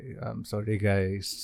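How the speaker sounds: hushed, very soft, low, raspy bedroom voice. Host just woken up with a sore throat, speaking to the guys: raspy bedroom voice. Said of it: "tapos raspy bedroom voice oh".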